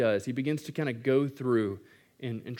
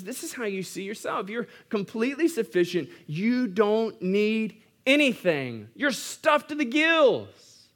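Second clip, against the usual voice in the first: high-pitched mock praise, slowing toward the end; sarcastic; 9 semitones higher, 3 dB louder, slower than usual. Paul telling believers how they see themselves, high sarcastic praise. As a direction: pile on the sarcasm, high and drawn out, building louder. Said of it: "entering into a little bit of sarcasm".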